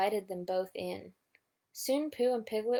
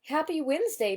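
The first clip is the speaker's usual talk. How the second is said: higher, louder cheerful call; 6 semitones higher, 4 dB louder than usual. A narrator's reading. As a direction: call the greeting across the garden. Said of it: "Pooh called".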